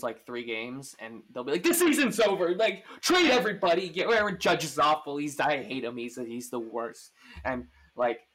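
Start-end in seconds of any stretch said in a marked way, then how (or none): 1.6-7.1 high, loud fan meltdown, fading as it goes; mock panicking fans. Mimicking Yankees fans after three losses, hammed-up despair. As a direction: imitate a ranting fan, starting high and loud, then running down.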